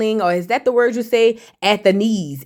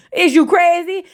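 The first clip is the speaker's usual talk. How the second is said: mock disbelief; 8 semitones higher, 3 dB louder than usual. The boy balking at Tesla.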